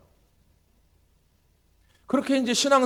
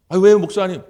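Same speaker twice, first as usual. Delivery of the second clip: startled grandfather; 8 dB louder than usual. Retold or imitated. Grandfather startled by pastor's refusal.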